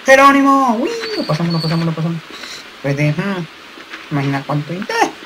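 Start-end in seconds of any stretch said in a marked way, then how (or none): 0.0-2.2 high, loud yell; excited shout. Real, not acted. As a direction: shout with glee as you leap. Leaping, cheering.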